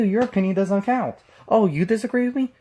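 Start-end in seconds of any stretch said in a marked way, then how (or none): 1.5-2.5 mocking whine. Mocking refrain, imitating opponents.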